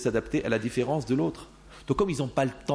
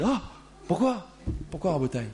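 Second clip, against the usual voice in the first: hysterical wife; 3 semitones higher than usual. Retold or imitated. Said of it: "La femme hystérique".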